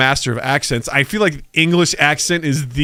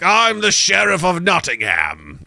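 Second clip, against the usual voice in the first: slow, higher, put-on Sheriff voice; mock Sheriff of Nottingham; 4 semitones higher, slower than usual. Mocking a Midwest actor's Sheriff, slow and higher. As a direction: ham up the villain's introduction.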